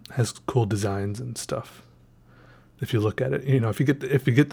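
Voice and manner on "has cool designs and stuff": soft, slow whispered aside. Real, not acted. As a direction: whisper it to yourself. Whispered aside about sticker.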